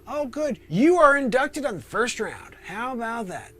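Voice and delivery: high, cheery gatekeeper greeting; lightly voiced jolly Saint Peter welcoming you; a high friendly porter at heaven's gate. Saint Peter announces induction.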